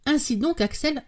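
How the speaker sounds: odd tone. A narrator's reading. Professor resuming with his nephew, odd tone. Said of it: "reprit le professeur d'un ton bizarre".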